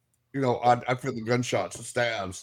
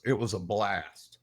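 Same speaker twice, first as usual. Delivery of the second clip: mock spirit voice; 6 semitones lower, 5 dB quieter, slower than usual. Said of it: "the exact words I got out of them".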